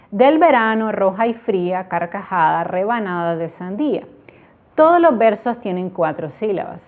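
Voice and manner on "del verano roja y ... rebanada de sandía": poem reading. Shown as a demonstration. Teacher reading a sample verse to students, poetic recital. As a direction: recite the little verse with a gentle poetic lilt. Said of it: "Ahorita ustedes lo están viendo en pantalla".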